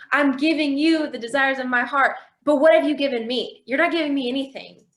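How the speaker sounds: exasperated pleading, retold with some heat; retold frustrated outburst. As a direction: pour out your grievance, insistently. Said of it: "I'm not saying God was yelling back at me".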